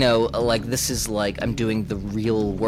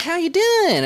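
very high, louder greeting; high-pitched flirty mimicry; imitated dancer's come-on; 5 dB louder, slower than usual. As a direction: mimic a forward club dancer saying hello. Imitated forward dancer greeting him.

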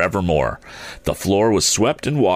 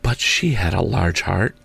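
lightly voiced spirit; a hint of an otherworldly ghost, measured. A narrator's reading. The ghost's voice in narration.

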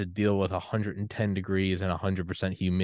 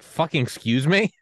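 indignant disbelief; 6 semitones higher, 5 dB louder than usual. Retold or imitated. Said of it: "I'm like".

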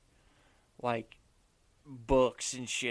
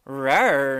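tiny squeaky trying to roar; 6 dB louder than usual. Retold or imitated. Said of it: "Do the roar".

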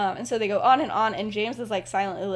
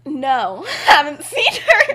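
real laughter breaking through the words; can't keep it together, giggling; louder, laughing while quoting James; 6 semitones higher, 12 dB louder, slower than usual. Real, not acted.

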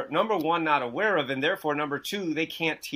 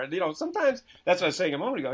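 ordinary talk, nothing marked

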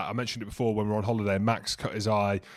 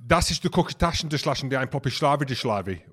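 mock German. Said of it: "I can speak German".

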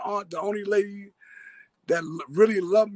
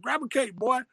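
imitating Slim; 5 semitones higher than usual. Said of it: "That's how he talked".

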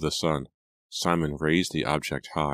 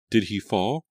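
frightened cry; 6 semitones higher, 3 dB louder than usual. A narrator's reading. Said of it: "Liza cried".

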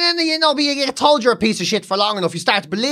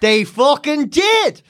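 laughing exclamation; 6 semitones higher, much slower than usual. Real, not acted. Exclaiming at invitation.

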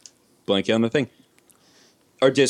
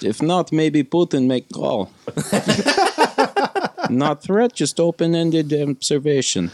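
put-on Russian accent; 3 semitones higher, slower than usual. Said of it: "I do a decent Russian accent".

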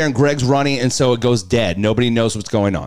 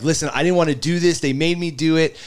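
higher, hurried plea; retold tearful pleading; 5 semitones higher than usual. College kid pleading with the cop, mock-tearful. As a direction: imitate a kid blurting excuses. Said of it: "I literally started crying".

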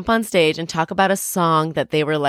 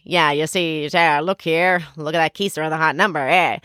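lightly voiced 1930s tough-guy gangster, fast at the end; a hint of old movie gangster slang; Edward G. Robinson impression. Host doing the voice that won Michelle over, mild gangster. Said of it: "Robinson impression".

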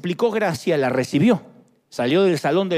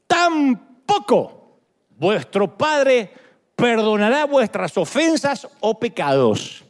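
tearful plea; much slower than usual. Acted. Preacher reads scripture with emotion.

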